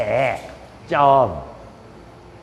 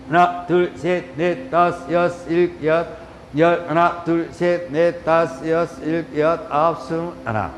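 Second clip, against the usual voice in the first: steady rhythmic yoga count; exercise count. Real, not acted. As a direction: count out the stretch beat by beat. Counts out knee presses. (박자 맞춰 구령 붙이기)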